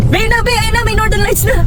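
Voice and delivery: high, excited mock announcement. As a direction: call it out high, as a playful false sighting. Calls out a supposed sighting.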